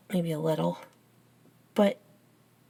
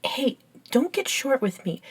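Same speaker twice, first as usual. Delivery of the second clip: higher-pitched indignant objection; 5 semitones higher than usual. Acted. Helper snapped at by vampire friend, indignant. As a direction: push back at a snippy friend.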